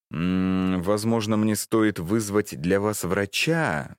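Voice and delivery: gentle. Acted. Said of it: "мягко сказал Джексон".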